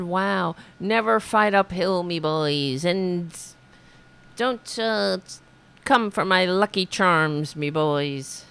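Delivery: a hint of an Irish brogue; lightly brogued "me boys"; mock Irish general. Host imitating the general's quote in mock Irish. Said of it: "He said".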